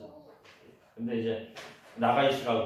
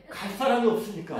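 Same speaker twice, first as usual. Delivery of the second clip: laughing; 8 semitones higher, 4 dB louder than usual. Real, not acted. Laughs at being sent anyway.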